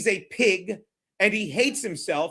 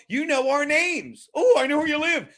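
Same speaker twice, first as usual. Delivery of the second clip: higher, mock-impressed exclaiming; mock taunt; 5 semitones higher than usual. Streamer mimicking trolls who know his address, mocking. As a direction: mimic a troll's big reveal.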